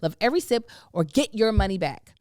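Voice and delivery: assured, emphatic sponsor pitch; podcast ad read. Acted. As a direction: sell it to the listeners with conviction. Reads a sponsor ad.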